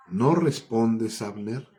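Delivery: fuerte y lento, llamando a distancia; llamando de lejos. Acted. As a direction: grita el nombre desde el monte. David calling out across hills. (grito lento desde lejos)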